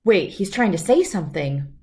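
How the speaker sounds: put-on calm, clear storybook reading for kids; reading a story aloud. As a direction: read it like bedtime story time. Reads picture book aloud.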